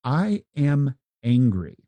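slow, deliberate I am angry; "I am angry" drawn out slowly; slow emphatic statement. Shown as a demonstration. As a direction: spell out "I am angry" word by word, slowly. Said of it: "If I wanted to say to you".

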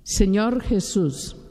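slow, each word laid out for her to repeat; slow dictation. Retold or imitated. Preacher leading a girl in prayer, slow dictation. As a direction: spell out Señor Jesús slowly so she can follow. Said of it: "Mija, repita conmigo".

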